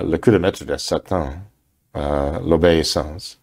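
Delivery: reading a French title aloud in a modest French accent, a little low; carefully sounding out the French words Le Coup de Maître de Satan, L'Obéissance; an English speaker's modest attempt at French. Shown as a demonstration. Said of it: "my accent isn't that good".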